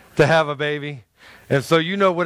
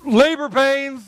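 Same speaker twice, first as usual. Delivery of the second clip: excited realization; 8 semitones higher, 3 dB louder, slower than usual. Retold or imitated. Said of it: "And I went".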